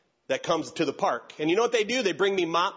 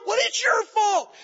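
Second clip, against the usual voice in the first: high, slow "well, it's your fault"; hammed-up judge ruling; stern judge; 6 dB louder, slower than usual. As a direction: lay down the verdict.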